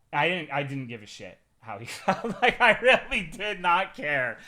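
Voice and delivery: loud, laughing through the words. Real, not acted. Streamer laughing to chat about ruining a guy's day. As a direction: cackle at your own cruelty. Gleeful confession of not caring.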